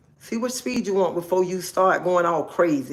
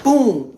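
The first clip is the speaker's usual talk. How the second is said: loud, higher-pitched boom; sudden boom; 4 semitones higher, 6 dB louder than usual. Shown as a demonstration. Warning ladies about jumping in full speed, sudden boom. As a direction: punch out one sudden boom.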